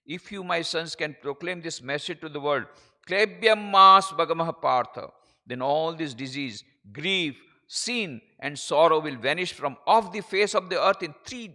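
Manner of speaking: slow, ringing declamation of scripture; stretched-out, emphatic oratory; preaching. Acted. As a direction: proclaim it slowly to the world. Declaims quotation in slow English.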